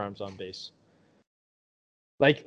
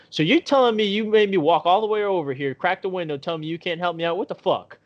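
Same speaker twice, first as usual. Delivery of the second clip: retold accusation, higher at the start; mock indignation; 4 semitones higher than usual. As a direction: imitate an indignant woman, pitched up. Retold indignant woman confronting him.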